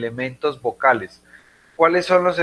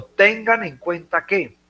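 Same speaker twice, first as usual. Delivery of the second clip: tengan en cuenta slowed and raised in pitch; emphasis on tengan en cuenta; 6 semitones higher than usual. Shown as a demonstration. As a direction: draw out tengan en cuenta to make it stand out. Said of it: "le estoy dando énfasis".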